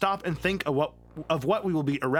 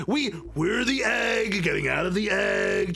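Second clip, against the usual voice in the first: excited; 4 semitones higher, slower than usual. Real, not acted. Excited revelation.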